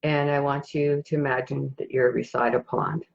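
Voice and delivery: calm meditation guide, long pauses between phrases; guided meditation. Acted. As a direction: gently guide listeners into a peaceful scene, unhurried.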